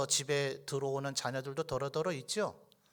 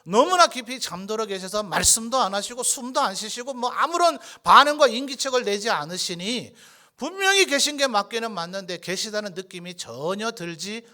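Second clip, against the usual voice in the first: raised, loud preacher's voice; higher, louder pulpit delivery; fervent preaching; 5 semitones higher, 7 dB louder than usual. Acted. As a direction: preach it insistently, pitched up.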